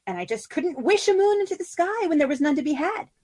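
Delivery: high, eager fairy-queen voice; a bright, wistful spider queen longing for the moon; Sisera's voice. Acted. Fairy queen to her wife, dreamy and high.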